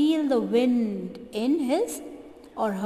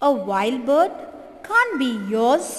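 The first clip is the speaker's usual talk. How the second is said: firm telling; 3 dB louder than usual. Acted. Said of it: "says the girl".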